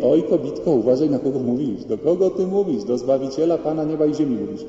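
acted pompous warning, pitch rising; imitated offended telling-off; mock indignant rebuke. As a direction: put someone in their place, climbing in indignation. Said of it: "Nie mówi".

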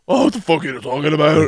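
muddy mock Irish accent; Fitzy. Host demonstrating the film character's accent, comic Irish drunk. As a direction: put on a garbled drunk Irish brogue. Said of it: "it's his accent".

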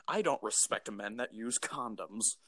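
caricatured YouTuber putdown; Steven Crowder. Acted. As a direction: imitate a disdainful commentator, hushed until the final jab. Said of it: "That clip of him that's like".

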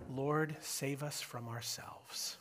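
slow, soft whisper to God; whispered plea. Real, not acted. Pastor ending the sermon with a whispered plea to God. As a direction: breathe the plea out quietly. Quiet prayer closing sermon.

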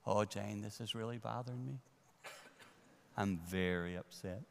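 demonstrating controlled, softened upset; half volume. Shown as a demonstration. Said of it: "I go to half volume".

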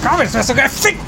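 high laughing taunt. Acted. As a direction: jeer through laughter. Crude mock command, laughing.

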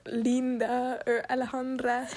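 names in a Spanish accent, slow. Shown as a demonstration. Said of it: "like, in the accent".

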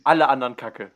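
shouted loud and emphatic. Acted. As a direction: shout the verdict out. Joking verdict shouted to group.

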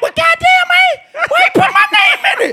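very high-pitched protest; indignant disbelief. Retold or imitated. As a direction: squeal a mock-outraged complaint. Retells own outraged reaction.

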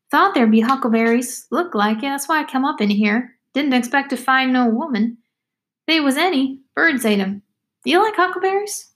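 put-on lilting girl's voice, swooping high; talkative country girl, chatty. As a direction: chatter on with high rising questions.

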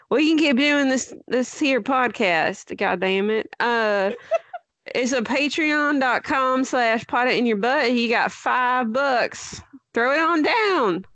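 folksy Southern ad read; playful country accent asking for five bucks. Shown as a demonstration. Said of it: "doing that accent".

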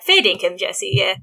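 a low, drawled Aussie fair dinkum; Aussie accent. Shown as a demonstration. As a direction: say it like an Aussie tradesman. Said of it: "it'd be like".

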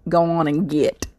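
put-on southern accent. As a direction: quote it with a southern twang. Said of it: "I'm saying it with my southern accent".

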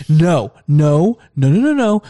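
rising string of mock-exasperated noes; imitated firm refusal. Mom refuses son's pleas to go out, mock exasperation. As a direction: play a mom shutting down the begging. Mother refusing again, acted out.

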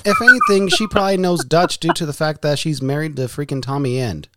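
loud, high, fired-up rant; loud ranting about a wrestler; loud exasperated rant. Real, not acted. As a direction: blurt it out, wound up. Mocking banter about wrestler.

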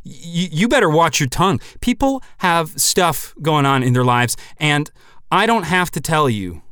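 lightly stammering indignant shout; mock holler. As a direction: yell back at the stranger like an indignant old-timer. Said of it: "I hollered right back at him".

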